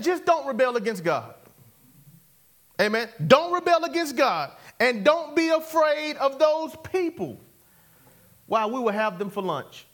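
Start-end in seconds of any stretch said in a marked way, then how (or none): 3.3-7.4 higher, emphatic preaching voice; forceful exhortation. Acted. Preacher voicing Caleb to the people of Israel, forceful. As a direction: proclaim it with authority.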